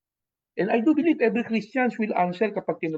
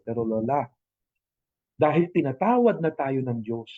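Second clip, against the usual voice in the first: gentle consoling; 4 semitones lower than usual. Shown as a demonstration. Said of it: "Dapat ang sabihin natin doon sa matanda".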